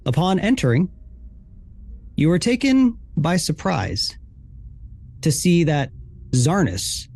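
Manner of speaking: measured, suspenseful scene setting with long pauses; game master narration. Acted. Game master telling players what they find in the room, suspenseful narration. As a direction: draw out the reveal, phrase by phrase.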